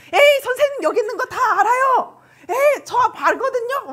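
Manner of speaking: high-pitched mock-tough kid; putting on bravado. Child calling out hidden teachers, high feigned bravado. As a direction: brag like a child acting unafraid. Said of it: "센 척을 하면서".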